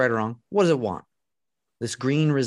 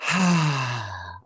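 long breath out; 3 semitones lower than usual. Real, not acted. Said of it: "One more time".

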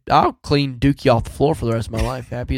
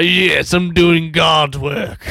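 mock proud shout; 4 semitones higher, much slower than usual. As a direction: declare it like a holy mission.

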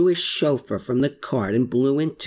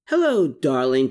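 grinning greeting. Acted. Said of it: "declared Gertrude with a grin".

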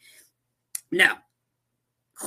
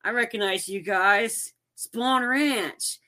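surprised recognition; 4 semitones higher, much slower than usual. Retold or imitated. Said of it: "Cliff's like".

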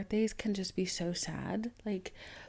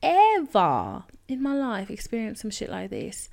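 loud laughing disbelief, slow start; real incredulous laughter; 5 semitones higher, 9 dB louder than usual. Real, not acted. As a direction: laugh it out, still stunned. Laughing at sugarless cake.

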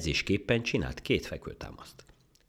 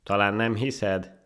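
slow, high, louder challenge; offended; 7 semitones higher, 7 dB louder, slower than usual. Acted. Monkey doubted by the rabbit, offended. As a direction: ask with hurt pride. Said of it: "kérdezte sértődötten a majom".

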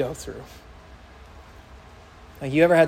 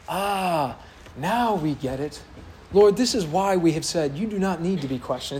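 satire and irony; 3 dB quieter than usual. Pretend. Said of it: "dripping with, like, satire and irony".

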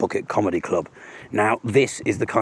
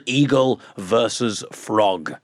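grand title announcement; much slower than usual. Shown as a demonstration.

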